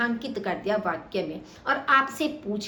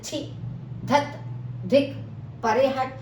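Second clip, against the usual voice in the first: disgusted exclamations; 3 semitones higher, slower than usual. Shown as a demonstration. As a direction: spit out धत and परे हट in disgust. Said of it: "घृणा बोधक". (घृणा से बोलना)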